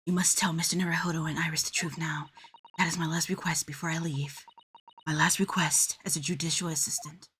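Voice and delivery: put-on a courteous young woman making a sad farewell; polite assistant voice. Judicial assistant bidding the girl goodbye, softly grave.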